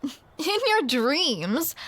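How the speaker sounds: slow, laughing In your dreams; amused mocking retort; laughing tease. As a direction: tease through a laugh, dragging it out. Teasing with a laugh.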